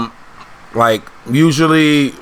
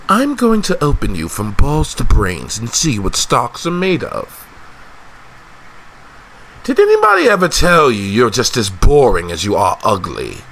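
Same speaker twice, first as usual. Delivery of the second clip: a hint of a menacing character voice; taunting fighter. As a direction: deliver the insult with theatrical relish. Acting threats and insults.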